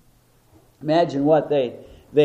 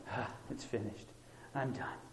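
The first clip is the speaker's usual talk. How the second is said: much softer, lower, sighing out the words; exhausted; 5 semitones lower, 20 dB quieter than usual. Retold or imitated. Onlookers imagining Christ giving up, exhausted sigh. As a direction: breathe it out like your last breath. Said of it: "in exhaustion".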